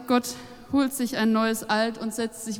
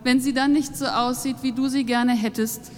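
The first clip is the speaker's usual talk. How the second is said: heated reproach; 5 semitones higher, 5 dB louder than usual. Acted. Narrator confronts God, heated.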